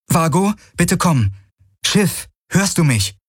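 high, slow call over the comm. A narrator's reading. Kirai radios her ship, high and slow.

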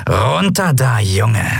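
growling pirate command; growled. Acted. Cat-like pirate ordering the boy down, growled. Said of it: "knurrte die Piratin".

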